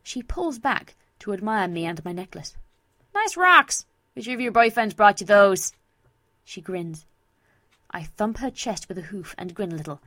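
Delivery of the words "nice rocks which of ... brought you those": loud, cheeky best-friend voice; brash Vinyl, teasing. Acted. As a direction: tease a friend about her new jewels.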